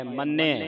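ਮੰਨਿਆ with a firm doubled n; pronounced tightly. Shown as a demonstration. Teacher models tight pronunciation, ਮੰਨਿਆ with held nn. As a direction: press hard on the nn of ਮੰਨਿਆ. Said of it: "ਕਸ ਕੇ ਬੋਲਣਾ".

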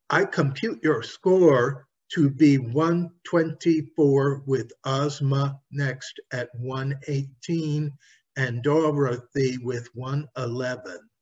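measured clockwork speech; robot voice. Acted. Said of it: "replied the mechanical man".

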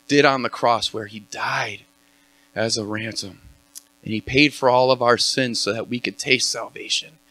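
earnest spoken prayer, opening strong then softening. Acted. Worship leader praying before Pastor Chet speaks, earnest. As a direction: pray over the room, sincere and steady.

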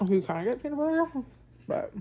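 chewing between words; talking while chewing. Real, not acted. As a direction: mouth partly full of food. Seen 1: Bites bar at -2; jaw and lips chewing while talking.

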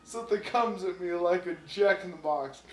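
flustered lizard Bill. A narrator's reading. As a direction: squeak it out, all in a fluster. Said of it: "a little feeble squeak".

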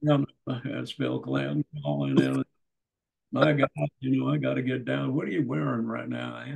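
a light, joking take on Bill Clinton; lightly voiced Clinton, hamming it up on the phone. Prank-calling the TV executive as Bill Clinton, lightly voiced. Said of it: "phone her up as Bill Clinton".

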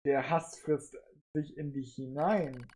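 tiefer, leiser, langsam; leise drohende Stimme. Acted. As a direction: unheimlich einflüsternd. Adam bedrängt den Android. (leise, drohende Stimme)

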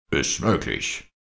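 stunned, slow stammer; barely gets the words out. Acted. Shocked captain stammers before Old Shatterhand. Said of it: "nur den Ruf zu stammeln vermochte".

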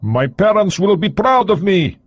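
put-on high, slow, accented pride; young Soviet agent speaking of his parents, accented; proud young agent. A narrator's reading. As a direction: say it slowly, holding on to pride. Agent answers.

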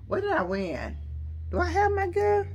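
a squeaky surprised question to herself; high squeak. Real, not acted. Vlogger asks herself where her gift is, in a high squeak. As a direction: pitch jumps way up, surprised.

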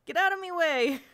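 high, loud snarl in makeshift Cornish; angry Cornish accent. A narrator's reading. Boy snarling at Jane on the quay, angry Cornish accent. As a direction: shout it angrily with a hammed-up Cornish accent. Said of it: "the Cornish accent made ugly by anger".

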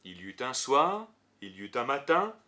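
measured litany, each phrase rising, day number falling; scripture refrain recitation. Acted. Teacher reciting the creation refrain to show its repetition, measured litany. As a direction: recite it in even, spaced phrases with pauses.

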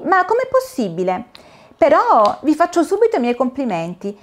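lightly voiced little girl, amazed; girl's voice. Dorina compliments the caterpillars, amazed.

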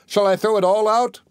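high-pitched calling out; bawling. A narrator's reading. Tom pretends not to understand the thieves, bawling. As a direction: pitch it right up, calling to those outside. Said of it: "bawled out again".

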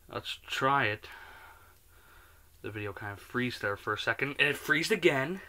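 chewing while talking; speaking between cookie bites; mouth full. Real, not acted. Seen 0: Bites cookie repeatedly, talks with it held at mouth.

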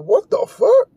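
very high, shocked squeak; stunned "what the". Retold or imitated. His reaction to the woman's outburst, high shocked squeak. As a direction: sound totally caught off guard. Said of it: "I'm like".

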